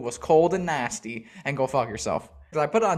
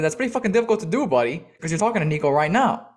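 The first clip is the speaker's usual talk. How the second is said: incredulous retort; 3 semitones higher, 3 dB louder, faster than usual. Retold or imitated. First retort to the confused driver.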